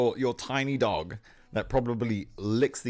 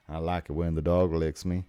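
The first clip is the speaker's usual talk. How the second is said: lower-pitched put-on French accent; 5 semitones lower than usual. Streamer mimicking someone barging into the chat, French accent. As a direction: do your best mock French accent. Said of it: "that's my best French accent".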